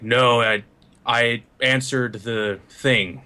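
very slow, halting reply; glacial. Acted. Robot explains himself to the puzzled newcomers, glacial and slow. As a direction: answer ponderously, like a moving mountain. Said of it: "it's very glacial".

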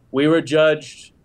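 slow, grand and ceremonial; solemn pronouncement. Acted. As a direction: declare it like a temple decree, slowly. Character bluffs a formal pronouncement.

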